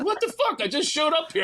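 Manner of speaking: very high squeal of disbelief; high yelped what the fuck; mock indignant surprise. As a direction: act baffled and put-upon. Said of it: "she's going".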